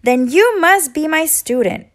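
the little bird, sure of her logic; bird insisting. A narrator's reading. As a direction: bird tells Rocket he must be her student, cheerfully firm. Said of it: "the bird interrupted".

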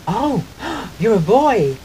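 put-on high gasp then a loud "you're a boy"; gasping, startled receptionist; shocked gasp. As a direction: act out her shock at a man's voice. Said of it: "she's like".

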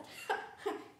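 short breathy storybook laugh; acted chuckle. A narrator's reading. Mister Ruggers amused by Amelia Bedelia's question, acted chuckle. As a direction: give a brief mock chuckle. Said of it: "Mister Ruggers said".

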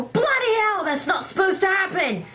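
high, hammed-up fake British exclamation; terrible British accent. Gamer exclaiming at the game in a terrible British accent. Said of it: "I tend to adopt a terrible British accent".

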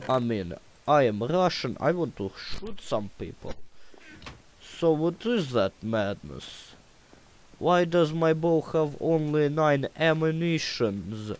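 playing a gung-ho Russian soldier with a bow; Russian impersonation. Gamer to stream viewers, mock Russian soldier accent. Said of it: "I like doing Russian impersonation".

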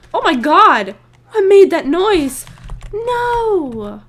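loud, high excited outburst; loud exclamation. Real, not acted. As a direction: shout in surprise. Reacts loudly to game.

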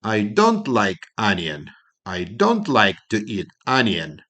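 teacher's negative model sentence; slow negative drill. Shown as a demonstration. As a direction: stress on "don't", slow. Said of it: "зробимо заперечне речення".

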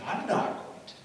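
near-whispered acted denial; hushed protest. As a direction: drop into a breath of a voice, insisting. Preacher acts Peter's hushed protest.

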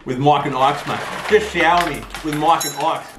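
talking between bites; chewing candy. Real, not acted. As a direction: mouth half full of candy. Seen 2: Pops candy into mouth, tosses more, mouth working throughout.

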